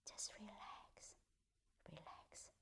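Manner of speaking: slow whisper fading almost to nothing; soft self-talk. Shown as a demonstration. Teacher showing the soft inner words, fading whisper. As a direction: let the words melt away. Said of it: "very softly, gently, saying to yourself".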